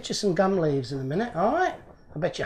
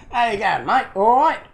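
raised-pitch, amateurish English accent; 5 semitones higher, 4 dB louder than usual. Shown as a demonstration. Repeating the botched greeting to a heckler, mock English accent. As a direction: put on a cheery English greeting, badly. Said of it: "gonna do an English accent".

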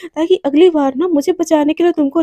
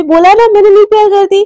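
irritated denial; 4 semitones higher, 5 dB louder than usual. Acted. Flustered denial of being in love.

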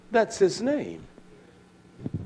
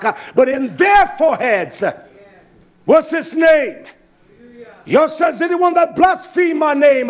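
loud preaching, building to shouts; fiery preaching; 2 semitones higher, 4 dB louder than usual. Acted. Preacher thundering Revelation at the congregation, loud and rising. Preaching scripture at full force.

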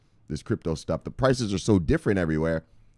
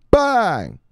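hype bang; 10 semitones higher, 6 dB louder than usual. Acted. Shoutout bang.

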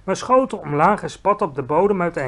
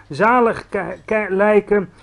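a slow, gleeful half-shout; mild shout; 4 semitones higher, 5 dB louder, slower than usual. Acted. Giant holding up his bottle, mild gleeful shout. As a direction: raise it a little, savouring each word. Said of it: "schreeuwde hij".

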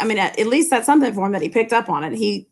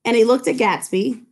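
steady read-aloud of a novel, quotes lightly voiced. A narrator's reading. Teacher reading the Gatsby scene to class, story narration.

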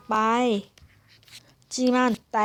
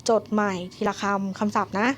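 slow instruction; 2 semitones lower than usual. Shown as a demonstration. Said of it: "ย้ำอีกครั้งหนึ่ง".

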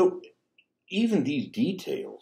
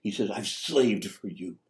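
sullen son; slower than usual. Retold or imitated. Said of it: "He's angry".

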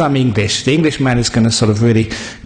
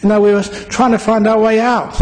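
relieved exclamation; 8 semitones higher than usual. Acted. Lost men greet Eskimo.

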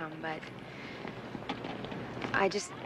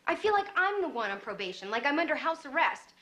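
higher-pitched, frustrated complaint; exasperated protest; 6 semitones higher than usual. Acted. Daughter telling mom she feels under house arrest, exasperated. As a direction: argue your case, pitch climbing.

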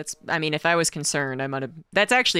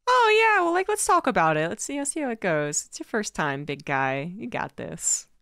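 mock coddling voice; 6 semitones higher than usual. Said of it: "We probably could have been like".

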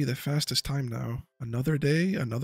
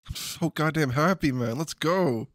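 joyful cheer; 3 semitones higher, slower than usual. Real, not acted. Celebrating rare drop.

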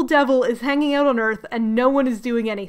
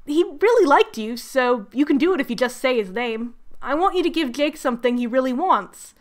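breezy, lightly acted friendliness; mock friendly. Lucifer coaxing Beth into a deal, mock friendly. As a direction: make the deal sound harmless and chummy. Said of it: "He's so friendly".

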